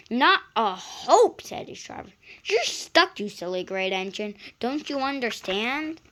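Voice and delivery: scolding driver. Acted.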